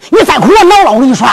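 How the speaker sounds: sharp stage scolding; acted irritation; annoyed husband's warning. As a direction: warn the crying wife with rising temper.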